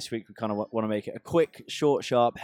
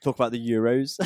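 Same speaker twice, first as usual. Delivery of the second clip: louder put-on West Country accent; 6 dB louder than usual. Shown as a demonstration. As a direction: try out a dodgy West Country voice. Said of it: "rest of the episode in a West Country accent".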